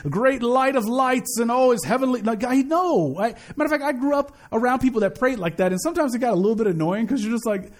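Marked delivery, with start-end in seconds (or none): 0.1-2.2 slow, mock-grand prayer voice; lofty formal prayer. Preacher parodies people praying too grandly, slow and mock-lofty. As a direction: ham up a lofty old-style prayer, slowly. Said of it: "He doesn't want us to pray like".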